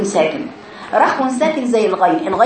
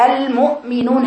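"المؤمنون" with an abrupt stop on ؤ; short stopped hamza. Shown as a demonstration. Teacher showing a quick saakin hamza, abrupt stop. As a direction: cut the sound dead at the ؤ of "المؤمنون". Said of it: "الزمن أقصر".

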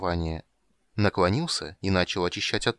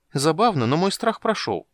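high, louder squeaky announcement; twitchy squeaking rat voice; 7 semitones higher, 5 dB louder than usual. A narrator's reading. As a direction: chirp it out like a rat. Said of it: "объявил крыса".

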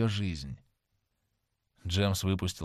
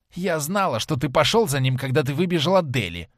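put-on drunk woman; 5 semitones higher, 4 dB louder than usual. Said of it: "прошипела она".

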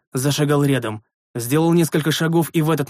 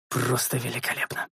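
much softer, resigned repeat; muttered dismay; 3 semitones lower, 9 dB quieter than usual. A narrator's reading. Master repeats his sarcasm to himself, muttered. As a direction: say it quietly to yourself.

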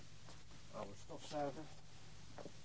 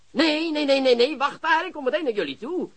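urgent; 6 semitones higher, 3 dB louder than usual. Acted. Stopping them, urgent on phone.

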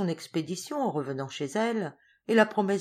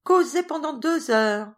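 slow, higher, louder, laughing disbelief; amused exclamation; teasing them with a laugh; 10 semitones higher, 8 dB louder, slower than usual. Acted. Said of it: "Mademoiselle Primrose riant".

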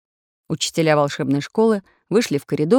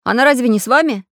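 higher, louder anxious question; worried; 7 semitones higher, 7 dB louder, faster than usual. A narrator's reading. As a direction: ask with rising concern. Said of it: "забеспокоился Самоделкин".

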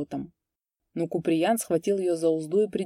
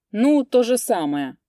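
higher, louder gloating reply; 5 semitones higher, 6 dB louder than usual. A narrator's reading. Kupriyan taunts the priest, gloating. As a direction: rub it in with malice. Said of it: "злорадно ответил Куприян".

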